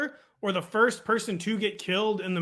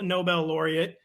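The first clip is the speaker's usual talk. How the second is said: ordinary delivery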